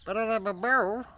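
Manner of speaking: loud, high call across the yard; sing-song shout to the chickens. Real, not acted. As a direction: call it out to the birds. Calling out to chickens.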